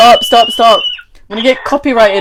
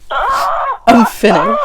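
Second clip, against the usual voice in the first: laughing cry; much slower than usual. Real, not acted. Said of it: "and I'm drunk".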